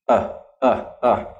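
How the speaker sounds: short, relaxed "Uh"; schwa sound. Shown as a demonstration. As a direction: say "uh" as a lazy, unstressed vowel. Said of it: "listen to this sound".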